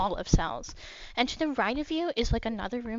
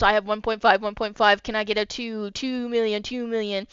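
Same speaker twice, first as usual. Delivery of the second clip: auctioneer; 5 dB louder than usual. Acted. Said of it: "He goes".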